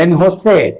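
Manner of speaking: "En Jose" run together, very unlike the spelling; French pronunciation attempt. Shown as a demonstration. Teacher showing how different the pronunciation is, French attempt. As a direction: say "En Jose" as one quick foreign phrase. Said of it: "pronunciation ഭയങ്കര വ്യത്യാസമുണ്ട്".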